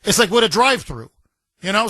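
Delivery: ordinary talk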